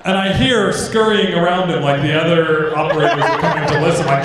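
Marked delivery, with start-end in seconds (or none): none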